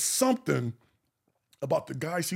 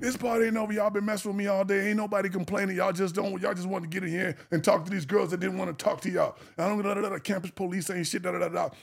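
ranting bride; 3 semitones higher than usual. Retold or imitated. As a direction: rant at the cops. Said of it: "still pitching the bitch".

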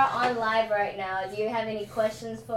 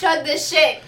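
frat bro; 5 semitones higher, 8 dB louder than usual. Acted. Urging the guest to drink.

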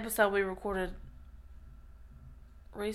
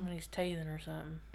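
whispering; 5 semitones lower, 13 dB quieter than usual. Pretend. Whispered aside about Robert.

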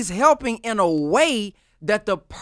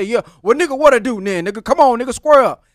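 mock challenge to a fight, louder; confrontational; 6 dB louder, faster than usual. Acting out cussing someone back, confrontational. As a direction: square up to him, punchy and loud.

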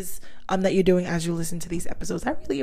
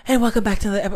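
breathless intro; talking while out of breath; 6 dB louder, much faster than usual. Real, not acted. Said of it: "why am I out of breath?".

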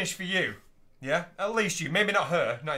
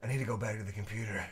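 much lower and softer, quick acted murmur; low, hushed mock confession; 13 semitones lower, 11 dB quieter, faster than usual. Acting out a man excusing himself to his girlfriend, low hushed voice. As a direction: say it low and under your breath. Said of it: "And you gotta go".

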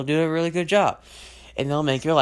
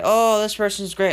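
mock gushing; 9 semitones higher, 6 dB louder than usual. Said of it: "at first, we say".

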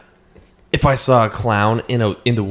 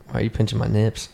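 put-on amateur Boston accent, a bit softer; bad Boston accent; 5 dB quieter than usual. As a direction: attempt a Boston accent, not very well. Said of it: "I can't do a good Boston accent".

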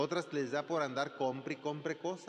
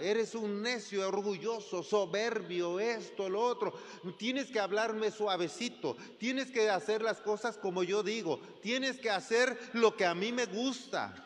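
higher, demanding, building reproach; accusing rant; 4 semitones higher than usual. Acted. Preacher acting out a hurt person scolding others, accusing rant. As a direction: scold them like a wounded person.

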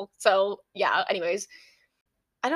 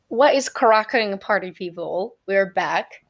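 loud slow hype intro; hype host greeting; 7 dB louder, slower than usual. Pretend. Podcast re-open greeting.

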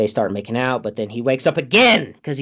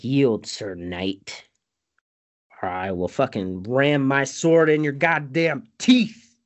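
imitated knightly threat; slower than usual. Don Quixote threatening in retelling.

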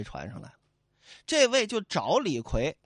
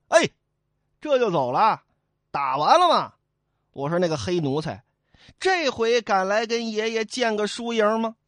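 louder, goading shout from behind; taunting challenge; 3 semitones higher, 5 dB louder than usual. Acted. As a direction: call him back to fight. Fish owner shouts a challenge. (鱼牙主人大声挑衅)

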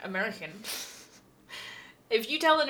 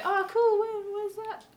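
higher, mock-cheery American asking where; mock American reply; 13 semitones higher, slower than usual. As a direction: play a puzzled American, pitched up. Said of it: "And they're like".

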